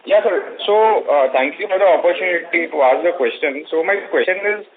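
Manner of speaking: muffled, as if through a hand. Real, not acted. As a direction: voice dampened over a bad line. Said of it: "You're sounding muffled".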